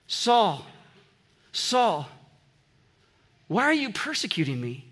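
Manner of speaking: gentle, unhurried call by name with long pauses; absolute gentleness. Acted. The Lord calls his enemy Saul by first name, gently. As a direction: let each name hang, then ask tenderly. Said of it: "notice the Lord's absolute gentleness".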